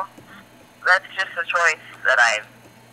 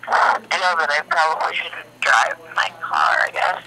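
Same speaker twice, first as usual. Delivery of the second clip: groggy hungover voice. Real, not acted. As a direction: sound a bit hungover. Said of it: "You sound like you drank a lot last night".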